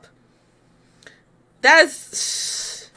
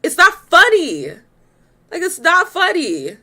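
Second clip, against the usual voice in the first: firm, raised and serious; stern not funny; 5 semitones higher than usual. Real, not acted. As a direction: insist it's not funny. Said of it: "I can't, y'all".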